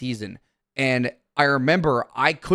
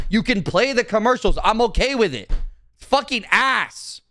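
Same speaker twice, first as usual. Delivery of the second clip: ranting; 5 semitones higher than usual. Real, not acted. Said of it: "That was a good rant".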